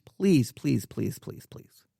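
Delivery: repeated please sinking into a whisper; plead, trailing down to almost no voice; fading plea. Real, not acted. Pleading with Christians to stop mocking, fading plea.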